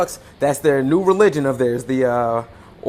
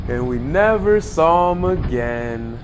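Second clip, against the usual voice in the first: spooky tease; slower than usual. Acted. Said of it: "That's not funny".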